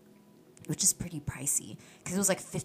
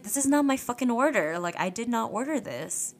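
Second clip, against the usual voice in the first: indignant protest; 6 semitones higher than usual. Retold or imitated. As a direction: protest the wrong order, a touch heated. Confronting waitress over wrong order.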